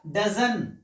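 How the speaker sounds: "डजन" for doesn't, no final t; short spoken pronunciation. Shown as a demonstration. Teacher giving the spoken pronunciation, contracted to डजन. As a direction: run does not into two syllables, "डजन". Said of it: "इसका क्या होगा".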